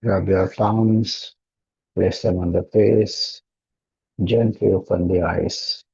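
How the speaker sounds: slightly hushed, unhurried instructions; meditation guidance. Real, not acted. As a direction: ease them gently out of meditation. Guides out of meditation.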